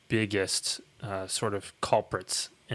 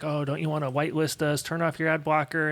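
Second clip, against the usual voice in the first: pleading website voice; 5 semitones higher than usual. Retold or imitated. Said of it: "websites like".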